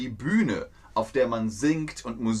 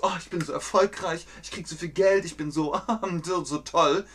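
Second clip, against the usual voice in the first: a touch higher, fast mock-smug boasting; bragging pilot; 5 semitones higher, faster than usual. A pilot bragging about money and success, lightly mock-smug. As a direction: show off lightly like a vain pilot. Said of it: "weil er Pilot ist und so".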